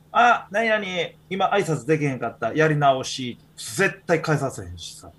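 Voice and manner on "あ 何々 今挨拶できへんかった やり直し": sharp correction. Retold or imitated. Teacher making a student redo a greeting, sharp. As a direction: snap them back to redo the greeting. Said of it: "もう怒鳴り声は言えへんけど".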